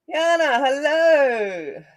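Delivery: high, very drawn-out hello; excited greeting. Real, not acted. Streamer greeting a viewer who joins, long high hello. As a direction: sing the hello out high and slow.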